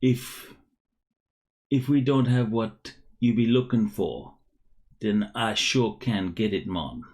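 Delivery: clumsy Jamaican lilt, welcoming customers; bad Jamaican accent. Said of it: "I'll try this in a Jamaican accent, a bad Jamaican accent".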